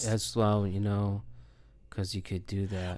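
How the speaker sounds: put-on depressed tone. Imitating how the other speaker described renting games: imitating a depressed tone. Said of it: "You sound depressed when you talk about this".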